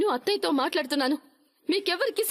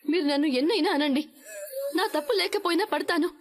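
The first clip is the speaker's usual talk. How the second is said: tearful. Acted. Daughter-in-law hurt and defiant.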